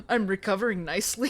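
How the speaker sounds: fast half-hearted Scottish burr; bad Scottish accent. Hero reassuring the heroine, hammed Scottish accent. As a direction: try a Scottish brogue. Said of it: "He's Scottish".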